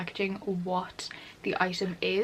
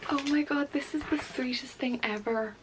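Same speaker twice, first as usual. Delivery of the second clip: touched and gushing; 5 semitones higher than usual. Real, not acted. Touched by an unexpected gift.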